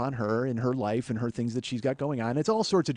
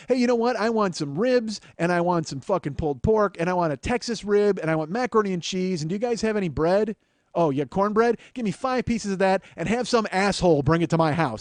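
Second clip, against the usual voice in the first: demanding takeout order, pitched up; mock lazy customer; 3 semitones higher than usual. Mocking a lazy customer phoning in a delivery order. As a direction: rattle off the order like a spoiled customer.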